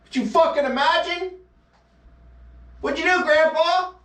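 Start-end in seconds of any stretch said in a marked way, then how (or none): 2.8-3.9 put-on much higher kid voice; mock grandchild. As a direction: squeak it like a curious grandkid. Grandchild asks again.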